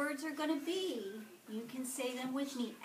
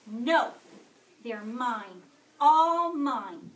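much louder, possessive yell; grouchy scream; 12 dB louder, much slower than usual. A narrator's reading. Grouchy ladybug refuses to share the aphids, screaming. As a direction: scream as if guarding treasure. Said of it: "screamed the grouchy ladybug".

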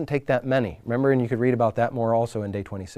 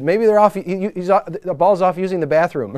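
lightly raised teasing taunt; mocking; 4 semitones higher, 4 dB louder than usual. Elijah teasing Baal's prophets about their god, mocking. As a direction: imitate a jeering prophet, a little amused. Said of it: "so he's mocking them".

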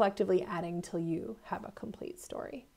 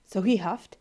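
usual speaking voice

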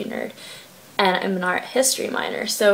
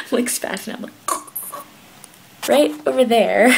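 giggling through the words; can't stop laughing; 3 semitones higher, 5 dB louder than usual. Real, not acted. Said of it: "I cannot control myself".

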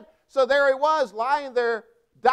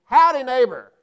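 loud friendly howdy call; a neighborly holler across the yard; hollered greeting; 4 semitones higher, 7 dB louder than usual. Retold or imitated. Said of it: "You know what I hollered at him?".

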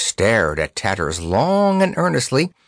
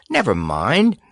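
laughing; 4 semitones higher than usual. Acted. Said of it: "laughed Dorothy".

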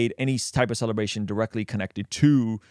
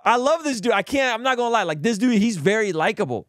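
giddy aftermath; 9 semitones higher, 3 dB louder than usual. Real, not acted. Still giddy after laughing fit.

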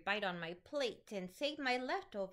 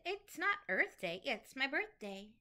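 proud monkey; 2 semitones higher than usual. Acted. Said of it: "proudly said".

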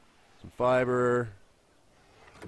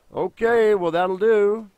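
loud relief; 8 semitones higher, 7 dB louder, slower than usual. Real, not acted.

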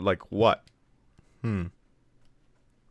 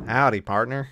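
a hint of a cowboy greeting; casual cowboy accent. Shown as a demonstration. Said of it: "a cowboy is like".

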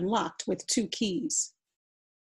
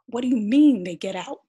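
alarmed; 4 semitones higher, 8 dB louder than usual. Acted. Soldier alarmed about ghosts.

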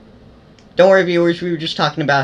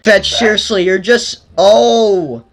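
panicked shouting; 6 semitones higher than usual. Real, not acted. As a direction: cry out in alarm, drawn out. Pinned and killed in game.

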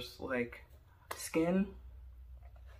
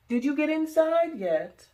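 put-on high, slow old lady call; neighbor calling out; 12 semitones higher, 9 dB louder than usual. Old neighbor calls from next door, high and drawn out.

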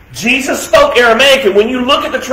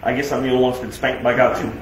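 laughing; 9 semitones lower, 7 dB quieter, much faster than usual. Real, not acted. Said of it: "laugh heard".

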